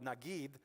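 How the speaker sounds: "nagid" said carefully as na-GEED; careful Hebrew word. Shown as a demonstration. Pastor to congregation, carefully saying "nagid". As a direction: sound out "nagid" slowly and precisely. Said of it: "I'm gonna try to say this word right".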